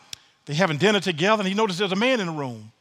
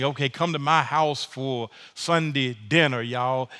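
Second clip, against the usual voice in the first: lower, casual folksy host voice; mock host invitation; 4 semitones lower than usual. Preacher voicing a host inviting folks to Sunday dinner, lower casual folksy. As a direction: invite them over like a church neighbor. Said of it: "that's like us saying".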